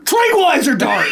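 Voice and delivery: high, loud laughing mock yell; mock shout. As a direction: blurt it out as a joke panic. Jokingly imagining sleepwalking kid.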